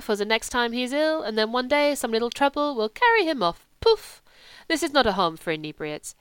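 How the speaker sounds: put-on emphatic accented doctor, building then dropping; accented scolding with an explosive "poof"; exasperated foreign doctor. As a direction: play a foreign doctor laying down the law.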